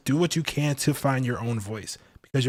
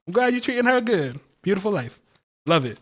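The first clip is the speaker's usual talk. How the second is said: playful hyped greeting; 10 semitones higher than usual. Retold or imitated. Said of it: "I'm like".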